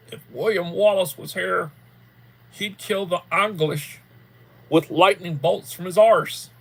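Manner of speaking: loud, slow mock Scottish rebel cry; rally the troops in a hammed-up Scottish brogue; Scottish accent. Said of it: "he's trying to speak, like, in a Scottish accent".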